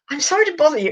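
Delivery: high, polite posh voice; Spike. Acted. Bearded dragon apologising to the visitor, posh high voice. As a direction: imitate a very posh, apologetic speaker. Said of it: "voice as being really posh".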